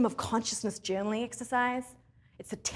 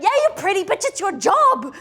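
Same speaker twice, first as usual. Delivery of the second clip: sarcastic; 7 semitones higher, 9 dB louder than usual. Acted. Mock reply to a supermodel.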